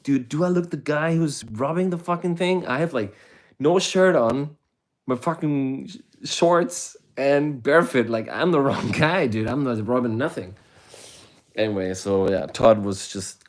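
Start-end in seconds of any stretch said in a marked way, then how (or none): 0.0-10.6 much higher, louder incredulous protest; a shirtless barefoot guy insisting he's no robber; indignant pleading. Retold or imitated. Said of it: "I'm like".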